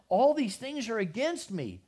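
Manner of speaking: "All these things are against me" cried out high and loud; anguished cry. Acted. Jacob crying out to his sons, loud lament.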